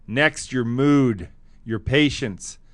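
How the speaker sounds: slow, playful read-aloud with pauses; comic reading aloud. Shown as a demonstration. Host reading a menopause joke aloud, slowly and playfully. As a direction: read it like a funny bedtime tale. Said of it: "I'll read it".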